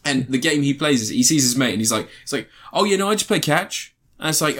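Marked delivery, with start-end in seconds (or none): 2.7-3.9 goofy character voice. Retold or imitated. Retelling comedy scene, character voice.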